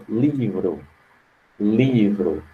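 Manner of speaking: "Livro" with the first syllable "Li" stressed; teacher stressing "Li" in "Livro". Shown as a demonstration. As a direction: hit "Li" in "Livro", let "vro" fall away. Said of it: "É o som mais forte".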